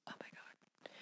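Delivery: breathless whispered gasp of shock; hushed mock disbelief. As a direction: whisper it like you can't believe it. Shocked reaction to listener letter.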